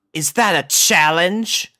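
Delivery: slow, growly challenge; a cat daring someone; growling cat. A narrator's reading. Opal the cat growling from the room, slow.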